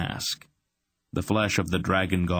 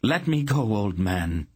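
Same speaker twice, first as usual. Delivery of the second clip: crying out; 3 semitones higher than usual. Acted. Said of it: "she cried".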